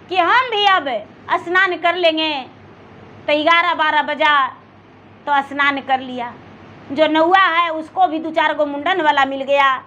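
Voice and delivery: usual speaking voice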